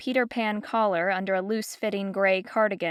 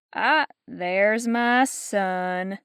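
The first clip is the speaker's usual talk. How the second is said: exclaiming grand dame; much slower than usual. Acted. Geraldine spotting her son Bellamy, a slow showy greeting. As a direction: sweep toward him with theatrical delight. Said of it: "Geraldine exclaimed".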